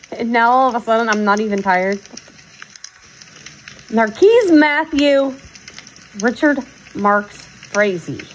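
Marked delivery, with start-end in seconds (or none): 3.9-8.3 slow, mock-stern full name; drawn-out mock warning; full-name scolding. Real, not acted.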